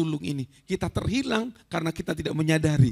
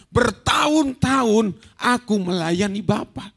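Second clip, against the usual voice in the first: resentful son; 7 dB louder, slower than usual. Retold or imitated. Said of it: "anak yang sulung ini".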